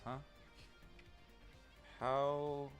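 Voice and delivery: ordinary talk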